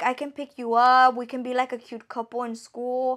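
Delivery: normal talking voice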